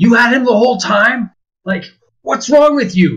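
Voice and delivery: shrill, very high, loud yelling. Voicing Orn yelling at Parvati in the scene: yelling. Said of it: "Orn's yelling at Parvati".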